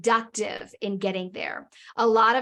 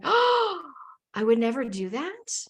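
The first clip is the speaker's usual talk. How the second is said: dawning realization; 3 semitones higher than usual. Retold or imitated. Wife catching her own double standard, startled realization. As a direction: let the truth hit you mid-sentence. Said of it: "And I was like".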